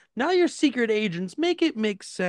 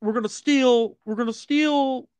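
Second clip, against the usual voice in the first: Obama impression. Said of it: "Is this your Barack impression?".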